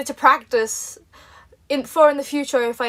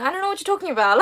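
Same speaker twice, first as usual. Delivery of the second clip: higher-pitched innocent denial; feigned ignorance; 5 semitones higher than usual. Retold or imitated. Daughter hiding her TV job from mum, feigned ignorance. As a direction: play dumb, lightly acted. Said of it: "I just pretended I didn't know".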